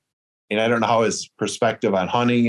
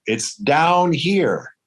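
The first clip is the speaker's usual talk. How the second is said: drawn-out, higher-pitched mock holler without much volume; imitated distant yell; 6 semitones higher, much slower than usual. Hiker calling up the mountain to the hunter, imitated yell. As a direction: stretch the words high like a far-off shout. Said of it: "I heard someone yell".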